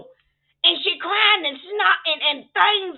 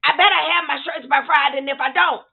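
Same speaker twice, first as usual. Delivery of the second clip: firm, louder warning; mock-tough threat to the cousins; stern threat; 3 semitones lower, 5 dB louder than usual. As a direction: lay down the law to them. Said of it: "I said it just like that".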